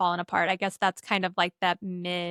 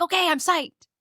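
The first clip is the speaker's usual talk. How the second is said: lightly voiced reluctant kid, higher; grudging agreement; 9 semitones higher, 3 dB louder than usual. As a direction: give in half-heartedly, mock enthusiasm. Ray giving in reluctantly.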